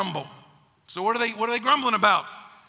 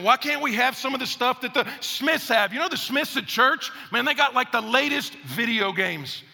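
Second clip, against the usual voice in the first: put-on envious kid; 4 semitones higher than usual. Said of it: "Another child pipes in".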